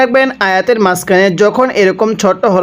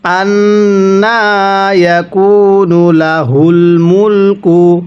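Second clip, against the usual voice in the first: drawn-out chanted recitation; slow Quran recitation; much slower than usual. Shown as a demonstration. Teacher recites for students to copy, slow chant. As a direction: stretch the vowels and hum the nasal. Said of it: "কিভাবে শিখব?".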